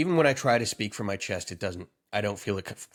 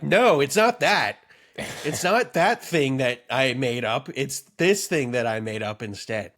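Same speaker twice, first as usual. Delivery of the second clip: mock indignant correction; 4 dB louder than usual. Teasing his co-host by quoting his correction, mock insistent. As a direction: imitate your friend being fussy about his own joke. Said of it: "I like how you're like".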